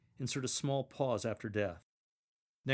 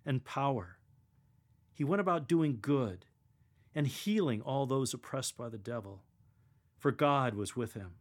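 lector reading. Shown as a demonstration. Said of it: "Think of a real-life situation".

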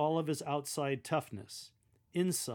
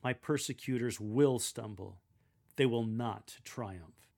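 slow, firm "They will not triumph"; stronger confidence; 3 dB louder than usual. Shown as a demonstration. Lector finishing Jeremiah's sentence to the congregation, firmly confident. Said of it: "Speak with even stronger confidence".

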